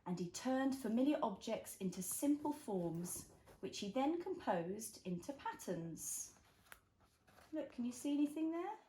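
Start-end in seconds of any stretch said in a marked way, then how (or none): 0.1-6.3 slow, gentle picture book reading; reading to a toddler. A narrator's reading. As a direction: read it slowly for a little one. Reads picture book to child.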